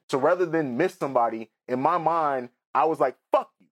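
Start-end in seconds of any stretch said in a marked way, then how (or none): 3.3-3.7 sudden much higher, louder mock snap; mock angry outburst. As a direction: fling it out like a resentful teen, imitated. Retold inner angry outburst at dad.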